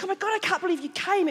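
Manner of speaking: high, hushed gushing; imitating excitement. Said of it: "she was so excited to see me".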